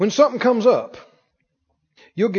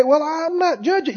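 high, defensive protest; mock denial; 6 semitones higher than usual. Preacher mimicking a defensive listener, high pitched. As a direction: whine the excuse like a caught listener. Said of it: "congregant's mock denial".

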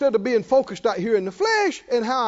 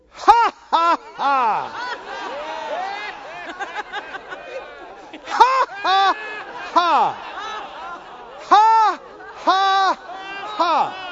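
forced laugh by faith; 9 semitones higher, much slower than usual. Pretend. Preacher showing the church how to laugh by faith, deliberate forced laughter. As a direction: push out a laugh you don't feel. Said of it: "you need to do that just by faith".

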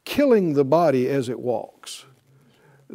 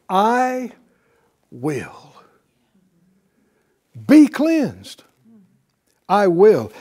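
Jesus speaking; 2 semitones higher, 4 dB louder, much slower than usual. Acted. Jesus voiced healing the leper.

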